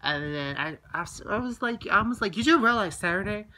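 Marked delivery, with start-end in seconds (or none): 2.4-3.5 reenacted annoyed confrontation; retold mad. Confronting a friend who didn't hear about the depression, mad. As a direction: retell it with heated stress on the swearing. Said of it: "that really made me mad".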